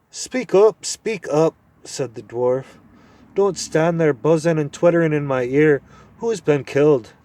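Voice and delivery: high, loud testy dwarf; impatient deaf dwarf. Acted. Deaf dwarf snapping at the owl to speak up. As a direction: snap at him to speak up.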